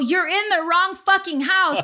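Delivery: panicked, startled, high screaming. Retelling how she screamed at paramedics who came into her house, retelling her own screaming. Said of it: "And I'm screaming at them".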